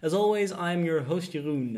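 smooth radio host read. Acted. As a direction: lean into the announcer tone. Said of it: "My radio voice?".

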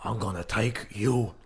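Al Pacino impression. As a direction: growl it out like Pacino. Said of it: "I could probably do, um, Al Pacino".

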